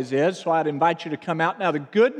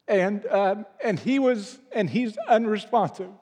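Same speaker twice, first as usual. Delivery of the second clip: higher, halting voice holding back tears; choked up; 4 semitones higher than usual. Real, not acted. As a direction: pause for breath, then push the words out, real emotion. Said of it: "I'm gonna take a breath".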